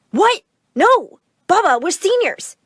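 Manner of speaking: high, loud hammed-up protest; mock scream. Twins screaming at Baba, high loud mock protest. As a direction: yell it in disbelief. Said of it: "both screamed together".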